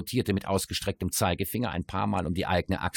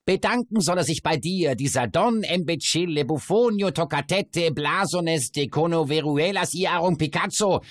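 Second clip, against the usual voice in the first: high, loud crude mockery; crowing dwarf voice; 9 semitones higher, 5 dB louder than usual. A narrator's reading. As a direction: rattle off the names, cackling. Dwarf mocks the Spanish ambassador.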